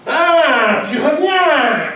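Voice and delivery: high, slow, mocking greeting; mock mother-in-law sneer. Mother-in-law mocking him at the door, slow and high. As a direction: sneer at the returning son-in-law.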